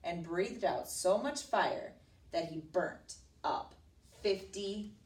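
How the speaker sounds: slowing for dramatic effect; story narration. A narrator's reading. Teacher telling of the dragon's fire, narrating dramatically. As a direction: draw out the big number.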